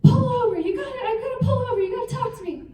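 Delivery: high, loud mock pleading yell at the coach; desperate plea. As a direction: beg him loudly to pull over. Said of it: "And I'm like".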